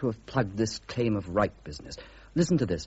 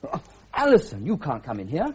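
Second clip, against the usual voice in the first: startled; 3 semitones higher than usual. Acted. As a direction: caught off guard by her walking in. Startled by unexpected visitor entering.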